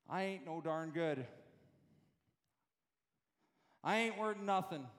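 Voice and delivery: put-on quoting in a hillbilly accent; a lightly drawled hillbilly accent. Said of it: "it sounds like a hillbilly when I say that".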